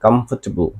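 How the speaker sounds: कंफर्टेबल as kumf-ter-bl; comfortable said right. Shown as a demonstration. Teacher corrects students' कंफर्टेबल to kumf-ter-bl. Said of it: "इसको कैसे pronunciation करेंगे".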